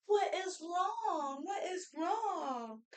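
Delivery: put-on slow, high, pitying "What is wrong?" to a fussing baby; soothing motherese. Shown as a demonstration. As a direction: coo the question slowly to the baby. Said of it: "then I'll say".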